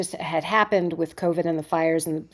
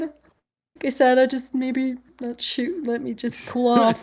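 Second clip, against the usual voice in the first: insisting I'm fine; 5 semitones higher than usual. Retold or imitated. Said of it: "And I'm like".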